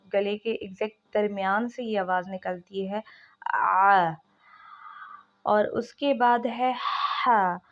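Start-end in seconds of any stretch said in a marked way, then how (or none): 3.5-4.1 आ fine and pressed from exactly mid throat, loud; thin ain sound. Shown as a demonstration. Teacher repeating the ain sound, thin and pressed. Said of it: "बहुत बारीक सी आवाज़".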